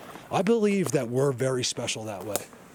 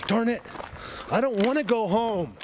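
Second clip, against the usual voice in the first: whiny reluctance; 10 semitones higher than usual. Real, not acted. Reluctant to leave.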